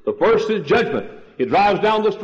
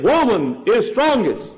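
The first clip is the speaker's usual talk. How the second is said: retold shout; 4 semitones higher than usual. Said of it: "he shouted again".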